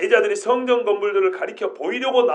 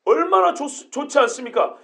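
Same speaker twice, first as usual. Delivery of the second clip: admiring; 2 semitones higher than usual. Shown as a demonstration. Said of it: "이런 뉘앙스로 보통 읽죠".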